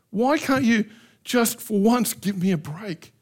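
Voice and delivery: exasperated plea to God; lightly voiced complaint; complaining prayer. Shown as a demonstration. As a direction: vent frustration at God. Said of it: "That's honesty".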